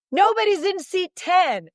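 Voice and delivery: excited disbelief. Retold or imitated. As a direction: let the excitement rise on nobody's empty seat.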